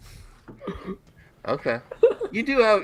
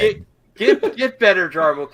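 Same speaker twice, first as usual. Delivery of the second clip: calling out; 4 semitones higher, 11 dB louder than usual. Real, not acted. Calling out to sick friend.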